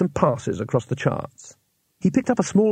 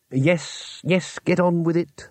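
irritable; 4 semitones higher, slower than usual. Acted. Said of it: "said Trumon irritably".

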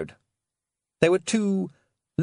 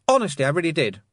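put-on young Roland voice; 7 semitones higher, 4 dB louder, faster than usual. A narrator's reading.

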